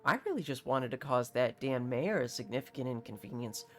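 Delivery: a lightly voiced haughty captain; hint of a pompous nobleman. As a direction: play a self-important mercenary captain, lightly. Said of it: "what he sounds like".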